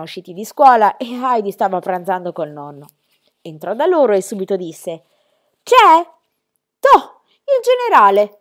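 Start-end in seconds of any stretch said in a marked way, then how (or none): 5.6-8.4 much higher and louder, slow teasing cry; mock surprised exclamation. A narrator's reading. Grandfather teasing late Peter at the door, loud mock surprise. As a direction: greet him like a grand arrival, mocking. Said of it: "fece il nonno".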